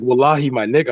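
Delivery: put-on light Arabic-accented quote of a friend. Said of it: "the way he says".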